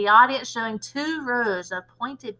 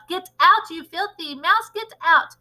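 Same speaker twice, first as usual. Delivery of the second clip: high, loud mock panic; shouting; 7 semitones higher, 5 dB louder than usual. A narrator's reading. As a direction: witch mimicking teachers ordering out a mouse. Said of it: "stand upon the desk and shout".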